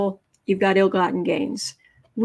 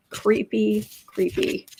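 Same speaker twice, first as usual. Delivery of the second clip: creepy repeated; slower than usual. Real, not acted.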